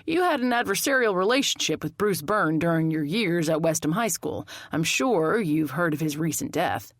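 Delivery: lightly voiced official questioning; a detective's measured, mild probing; formal detective.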